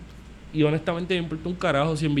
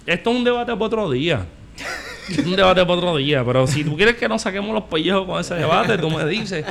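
heated; 4 semitones higher than usual. Real, not acted. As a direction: throw down the gauntlet, worked up. Heated debate challenge.

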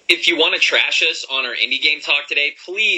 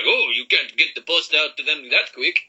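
hammed-up Italian chef, slower and higher; Italian accent; 4 semitones higher than usual. Italian-American host voicing a quality-control head chef, exaggerated Italian accent. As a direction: do a bad, drawn-out Italian accent. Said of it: "That's the worst Italian accent I've ever heard".

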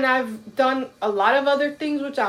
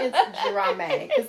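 laughing; 10 semitones higher than usual. Real, not acted. Laughing at herself.

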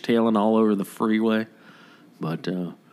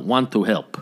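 put-on lightly done Spanish-accented English; hint of a Latino accent; imitated Latino accent. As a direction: imitate an old Latino man's accent, gently. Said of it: "That's how he sounds".

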